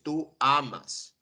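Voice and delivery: "tú amas" slowly, weight on "amas", falling at the end; slow demo of "tú amas"; slow example. Shown as a demonstration.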